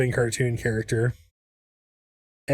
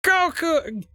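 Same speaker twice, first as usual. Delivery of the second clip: much higher cartoon yell of a name; split-the-difference voice; 14 semitones higher than usual. Mixing zombie and Smeech voices, a high cartoon call. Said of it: "if I split the difference between the two".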